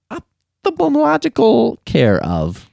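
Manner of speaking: high, slow and overly proper; lightly mock prim. Host reading the polite card in a mock prim voice. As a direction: stretch the big word out primly.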